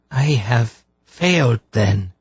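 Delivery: lightly voiced, holding back tears; understated tearful admission. A narrator's reading. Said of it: "in a voice filled with tears".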